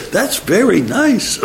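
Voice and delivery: put-on slow, high Italian accent. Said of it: "that's my Italian accent for him".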